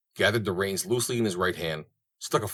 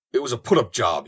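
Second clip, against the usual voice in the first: sputtered; 3 semitones higher, 4 dB louder than usual. Acted. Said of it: "he sputtered".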